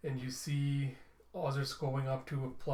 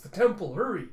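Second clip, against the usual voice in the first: higher and much louder, hurried call; urgent shout; 6 semitones higher, 9 dB louder than usual. Acted. Ozris urging the robot into the temple, urgent shout. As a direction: yell at them to run for the temple. Fleeing the attack.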